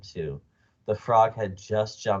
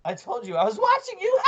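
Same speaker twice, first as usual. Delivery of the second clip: very high witchy cackle; cackling. A narrator's reading. Wife gloating over her glass-eye trick, cackling. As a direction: crow it in a piercingly high cackling voice. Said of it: "cackled Missus Twit".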